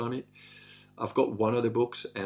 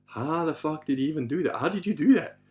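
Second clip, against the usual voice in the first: higher, incredulous question; retold amazement; 4 semitones higher than usual. Watchers amazed at a falling lock, incredulous. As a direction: mildly act out baffled amazement.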